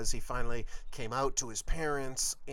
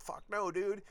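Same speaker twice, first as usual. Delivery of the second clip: inner voice; 7 semitones higher than usual. Retold or imitated. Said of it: "And inside".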